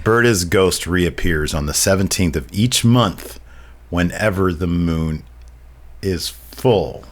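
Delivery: haunting voice. Acted. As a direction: read it like a grim ghost tale. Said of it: "like, a very haunting voice".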